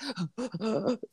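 shuddering gasp, fighting back tears; mock held-back sob; imitated stifled sob. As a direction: mimic catching your breath before crying. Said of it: "like, trying not to cry".

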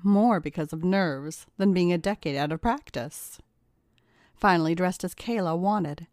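plain reading voice

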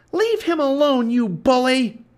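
high, loud indignant yell; crying out. A narrator's reading. Annie confronting the pirate, indignant cry. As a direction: yell in defence of your brother. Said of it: "she cried".

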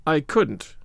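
short, unbending refusal; grim. Acted. Marilla refuses Anne's game of imagining, grim. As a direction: shut it down with mild grimness.

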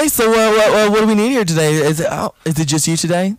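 playing waiter. Plays the waiter.

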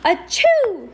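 a big high acted sneeze; child reader sneezing loudly for Heidi. A narrator's reading. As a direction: let out a loud, sharp achoo. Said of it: "sneezed Heidi".

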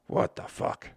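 a whispered, bewildered curse; whispered disbelief. Real, not acted. Podcaster baffled by stock talk, whispering in disbelief. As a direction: breathe it out in disbelief.

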